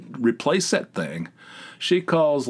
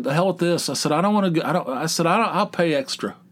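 fed up; 6 semitones higher, faster than usual. Retold or imitated. Fed up, paying extra.

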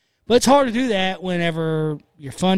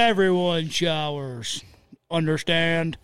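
even slower, drawn-out coach order; gym teacher voice; 2 semitones lower, slower than usual. Pretend. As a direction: stretch out "Everyone showers" stern and slow. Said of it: "like my seventh grade gym teacher".

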